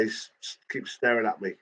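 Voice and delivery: whispered, halting, scared; a retold hushed warning; fearful whisper. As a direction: whisper it as if the man can hear. Dad fearfully reports a stranger.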